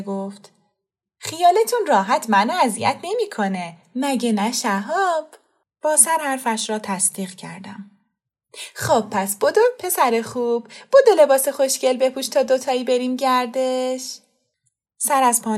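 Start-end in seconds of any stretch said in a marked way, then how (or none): 1.2-5.3 lightly voiced young woman, bright reassurance that slows at the end; reassuring. Fereshteh reassures mother. 8.7-14.2 a hint of cheerful big sister hurrying the child; coaxing. Young woman urges the boy to dress, lightly coaxing.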